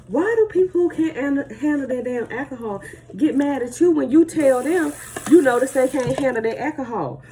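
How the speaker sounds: exasperated rant. Real, not acted. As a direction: let the frustration spill out. Ranting about drunk people getting mad.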